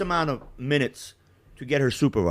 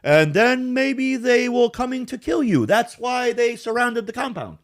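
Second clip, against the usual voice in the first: mock tough-guy lines, higher and slow; Jack Reacher voice; 11 semitones higher than usual. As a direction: ham up a grave action-hero warning. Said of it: "make the face like Jack Reacher".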